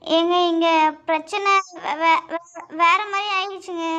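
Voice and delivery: stuttering, stuck on the first syllable; panicked stammer. Acted. Anxious caller breaking trouble to the man on the phone, stammering. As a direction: trip over the word before forcing it out. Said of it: "அதுக்கு ஏன் இவ்ளோ திக்கிற".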